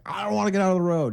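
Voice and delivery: mock-panicked talking dog; scared little dog. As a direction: imitate a frightened dog protesting.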